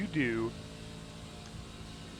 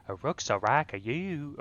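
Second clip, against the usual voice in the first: Southern Japanese accent; 3 semitones higher than usual. Shown as a demonstration. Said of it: "so do a Southern accent with Japanese".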